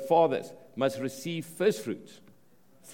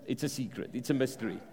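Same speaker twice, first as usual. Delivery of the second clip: hushed secretive; 3 semitones lower, 7 dB quieter, faster than usual. Real, not acted. Teasing secret kept from congregation.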